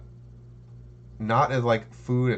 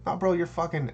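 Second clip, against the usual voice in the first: bro voice; 7 semitones higher than usual. Retold or imitated. Dudes quoted again.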